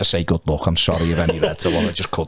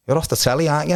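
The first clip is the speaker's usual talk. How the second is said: higher-pitched mock Cockney; Cockney accent; 9 semitones higher, faster than usual. Cockney fella spotting him off the telly at reception, mock Cockney accent. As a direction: lightly imitate a Cockney fella. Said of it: "Cockney fella".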